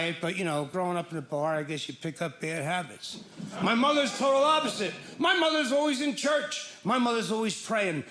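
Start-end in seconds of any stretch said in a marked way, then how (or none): 3.6-8.0 excited emphasis. Real, not acted. Louder excited description of mother.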